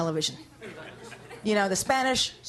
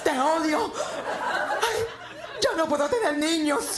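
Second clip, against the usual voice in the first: mock melodramatic soap star; soap opera melodrama; 7 semitones higher than usual. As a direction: overplay the tragic heroine. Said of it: "so emotional".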